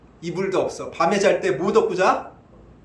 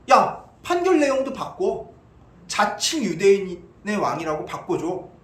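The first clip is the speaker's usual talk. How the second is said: bossy mock judge; 2 semitones higher than usual. Chief priests telling Pilate to change the ruling, bossy. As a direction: imitate priests ordering like judges. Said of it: "자신들이 재판장이 된 것처럼".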